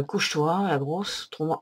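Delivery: loud command to a pet; calling out to the dog. Real, not acted. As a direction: make her lie down, firmly. Ordering the dog to lie down.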